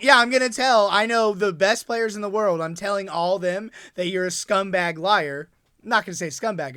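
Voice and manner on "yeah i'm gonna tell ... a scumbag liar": mock threat. You're gonna be like.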